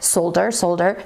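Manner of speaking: "solder" with long O and L, repeated; friend's pronunciation of solder. Retold or imitated. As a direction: say "Solder, solder" with each L sounded. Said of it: "Andrew is always like".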